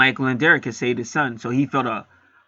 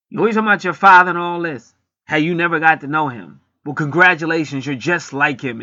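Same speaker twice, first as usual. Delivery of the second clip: angry woman; 3 semitones higher, 4 dB louder than usual. Retold or imitated. Girlfriend lashing back at him.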